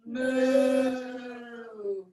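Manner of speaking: cow moo. Shown as a demonstration. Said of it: "for cow".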